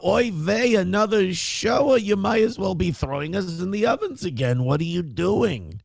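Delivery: a hint of a wounded Jewish victim; yiddish accent. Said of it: "you're gonna go".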